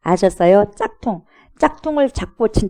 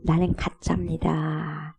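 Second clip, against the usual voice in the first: softer, slow admission; slow quiet confession; 3 semitones lower, 8 dB quieter, much slower than usual. Retold or imitated. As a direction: let the words fall quietly, slowly. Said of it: "스스로 증명하는 거예요".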